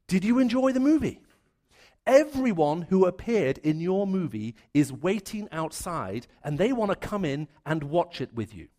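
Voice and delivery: a showman angel teasing the listener; angel's cheery question. Pretend. Angel asks the dead man about his life movie, loud and lilting. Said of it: "the angel comes back and says".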